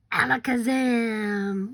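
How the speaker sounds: slow, loud magic word. Shown as a demonstration. Teacher casting a spell for kindergartners, slow and loud. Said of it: "Your time to say, "Alakazam".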